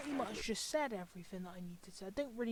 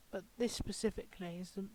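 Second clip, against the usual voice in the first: exasperated whisper; 3 semitones lower, 8 dB quieter than usual. Real, not acted. Exasperated at viewers.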